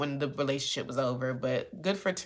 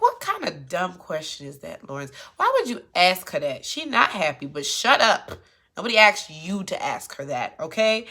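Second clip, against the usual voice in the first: louder, exasperated scolding; mock scolding; 3 semitones higher, 6 dB louder than usual. Real, not acted. Recapper yelling at Lawrence for his dumb question. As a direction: tell him off like he's standing there.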